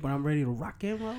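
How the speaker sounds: stuffy, nasal voice; a blocked nose. Real, not acted. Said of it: "I sound a little nasally".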